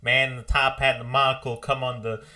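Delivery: put-on high, begging young greenhorn; pleading greenhorn. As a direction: beg the old man desperately. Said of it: "But like".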